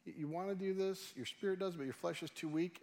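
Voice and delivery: gently understanding, unhurried; kind. Acted. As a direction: let them down softly and kindly. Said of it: "And he's kind about it".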